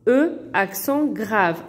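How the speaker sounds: E, accent grave spelled slowly; deliberate classroom spelling. Shown as a demonstration. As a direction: spell out E, accent grave, each part clear. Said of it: "le son E s'écrit souvent".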